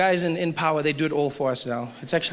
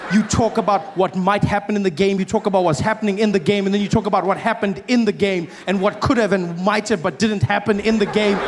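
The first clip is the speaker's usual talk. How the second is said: building rant; 3 semitones higher than usual. Acted. Comedian mocking American fans, building rant. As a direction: pile it on, getting more worked up.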